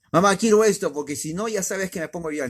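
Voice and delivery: a hint of a whining two-year-old; mock whiny child. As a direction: play the spoiled kid threatening tears. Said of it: "como el niño".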